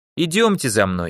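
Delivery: ordinary delivery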